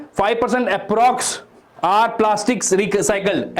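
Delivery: slow demo reading. Shown as a demonstration. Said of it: "ऐसे पढ़ना है".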